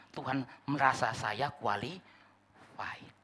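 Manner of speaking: slow, self-satisfied; drawn out like a proud claim; savoring being qualified; smug assumption. Acted. Mocking the presumptuous view.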